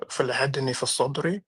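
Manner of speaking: quick Arabic recitation of فَلَحَدَنِي فِي الصَّدْرِ; reading Arabic aloud. Shown as a demonstration. Streamer reads the hadith aloud to the chat, quick Arabic reading. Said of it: "So basically it says".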